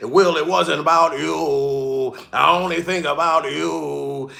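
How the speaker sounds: low, slow, crooning rapper impression. Streamer imitating a rapper to Will, low slow croon. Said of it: "In my rapper voice".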